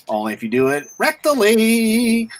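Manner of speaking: straight-faced comeback. Pretend. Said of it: "with a straight face".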